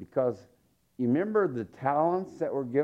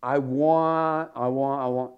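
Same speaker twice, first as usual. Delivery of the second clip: put-on louder, childish grabby "I want"; greedy whining; 4 dB louder than usual. Greedy soul in heaven demanding louder, grabby whining.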